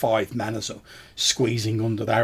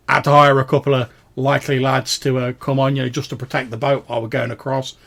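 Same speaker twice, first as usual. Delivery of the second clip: lightly voiced ferryman, a bit louder at first; plain-spoken ferryman; 3 semitones higher, 7 dB louder than usual. Ferryman explains his hired lads, lightly acted. Game master plays the ferryman.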